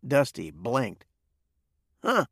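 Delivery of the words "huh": short grunt. A narrator's reading. Dusty grunting at surprising news, short grunt. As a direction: grunt it out briefly. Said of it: "he grunted".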